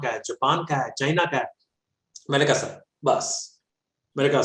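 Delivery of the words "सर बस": breathy slow whisper; mock student whisper. Student whispering to the teacher. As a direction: whisper it like a shy foreign student.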